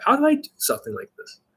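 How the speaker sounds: very high, lilting playful question; happy, carefree vibe. Shown as a demonstration. Dating coach shows happy, fun vibe, carefree. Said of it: "happy, fun, carefree, positive vibe".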